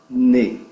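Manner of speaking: "ne" given alone as the strong syllable; stress on NE. Shown as a demonstration. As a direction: punch "ne" by itself. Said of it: "A sílaba forte é". (sílaba forte "ne", isolada e marcada)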